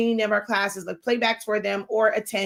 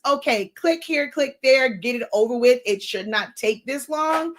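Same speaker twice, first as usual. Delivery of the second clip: impatient viewer. Retold or imitated. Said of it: "in your mind, it's".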